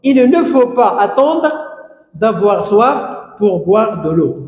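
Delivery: slow, with ne lifted and pas stretched; stress on ne pas. Shown as a demonstration. Teacher dictates the negative sentence, stressing ne pas. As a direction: lean on the ne pas so pupils hear it. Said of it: "La forme négative, ici, ne pas".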